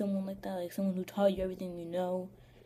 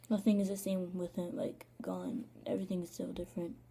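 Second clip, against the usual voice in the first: whispered through grief; hushed and heavy, barely voiced; grief-stricken whisper. Real, not acted. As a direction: whisper it as if holding back tears. Missing her late dad.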